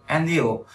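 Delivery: "and you" run together as one linked word, "en-diu"; linked sounds. Shown as a demonstration. Teacher showing learners linking in "and you", linked sounds. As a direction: link the d of "and" onto "you". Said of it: "ta không thể đọc là and you".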